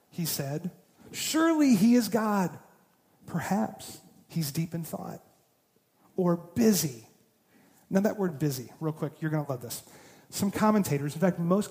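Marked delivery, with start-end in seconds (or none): 1.1-7.1 taunt. Acted. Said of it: "Elijah began to taunt them".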